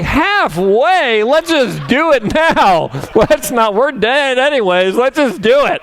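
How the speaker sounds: high-pitched, hammed-up panicked protest; mock panic. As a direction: plead high and frantic, playing it for laughs. Acts out his panic on the plane.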